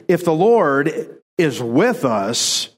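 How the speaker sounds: slow, doubting stress on WITH. Acted. Gideon questioning whether God is with them, doubting. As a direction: draw out a sceptical "with". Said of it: "you can hear he's doubting that".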